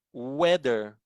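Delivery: "Weather" with a stretched oo onset. Shown as a demonstration. Teacher gives an example of W, "Weather" begun on a long oo. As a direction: begin "Weather" as oo-eh-ther. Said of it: "Ano yung bigkas sa W".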